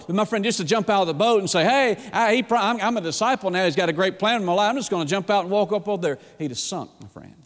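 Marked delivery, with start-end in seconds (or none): 1.6-6.2 higher, quick, cocky patter; mock overconfidence. Preacher mimics a disciple leaping from the boat, brashly presumptuous. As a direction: rattle it off like an overeager disciple.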